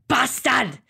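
one-word Scottish curse; Scottish accent. Shown as a demonstration. Trying out accents for swearing, Scottish accent. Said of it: "Is it Scottish?".

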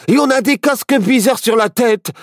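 high, urgent calling out; excited, high-pitched cries; agitated. A narrator's reading. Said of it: "s'excita Barnabé".

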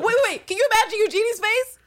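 兴奋地抢话，音调高而响; high excited cut-in; excited interruption. Real, not acted.

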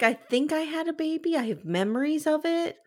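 high, tentative mock recollection; hazy recollection. Acting out Aurora's hazy recollection.

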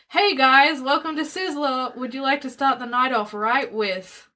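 lightly voiced server welcoming diners; restaurant server greeting.

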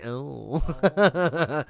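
small, drawn-out throat noise. Shown as a demonstration. Showing friends the noise his throat made, throat noise. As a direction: let out a wee throaty "oh". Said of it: "Do you hear my throat noise?".

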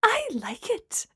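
high, slow, unconvincing praise; strained little high voice; forced politeness. A narrator's reading. Gemma politely pretends to like food.

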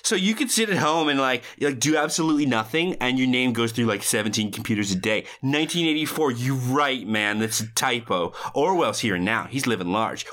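lively acted rant with exact movie inflection; movie character monologue. Host performing Matthew Lillard's crashing monologue, animated and emphatic. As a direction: recite it like a well-rehearsed film impression. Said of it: "Your inflection is exact".

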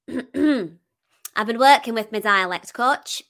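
slow, deliberate northern English accent. Shown as a demonstration. Singer answers host about working with a dialect coach, northern English accent. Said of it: "How's your northern accent going".

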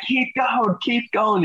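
high mock shouted orders; mock drill order. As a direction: push like an instructor. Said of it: "They're like".

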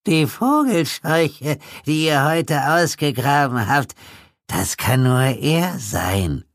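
put-on very high, slow reedy old man; ominous old man, slow and thin; high creepy old codger, drawn out; reedy old Pete. A narrator's reading. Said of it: "fistelige alte Stimme".

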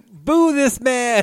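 rally the room to boo him; mock booing. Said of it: "crowd booing".

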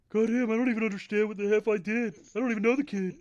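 gruff ranting wrestler voice; Ultimate Warrior impression. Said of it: "like the Ultimate Warrior did his".

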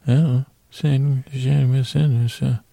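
mumbled, indistinct character voice; Mumble Bear. Acted. Bear answering the host's question, mumbling. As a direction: mumble it into near gibberish. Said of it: "oh, it's just the way you talk".

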